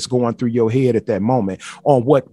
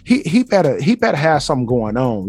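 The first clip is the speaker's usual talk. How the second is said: mock frustrated woman. Man voicing a woman waiting on a call, mock frustrated. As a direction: play her fed up and suspicious. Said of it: "she frustrated".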